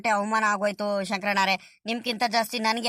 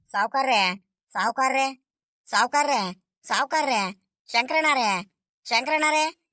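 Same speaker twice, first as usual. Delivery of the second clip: repeated calling out; 3 semitones higher than usual. Acted. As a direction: call "ಸಾವ್ಕಾರ್ರೆ" over and over, a little raised. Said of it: "ನೂರ್ ಸಲಿ ಕರಿತೀಯಲ್ಲ".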